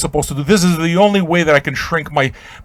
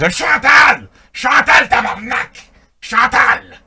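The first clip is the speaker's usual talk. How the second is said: calling out; 11 semitones higher, slower than usual. Pretend. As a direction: cry out her name to the heavens. Calls out to dead friend.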